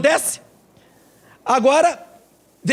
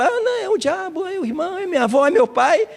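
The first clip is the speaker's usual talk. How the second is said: whiny excuses; 10 semitones higher than usual. Acted. Complaining believer blaming others.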